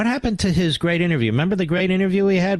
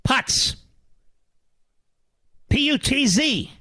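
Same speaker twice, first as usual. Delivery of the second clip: scornful spelling; 7 semitones higher, slower than usual. Real, not acted. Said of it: "what it means backwards".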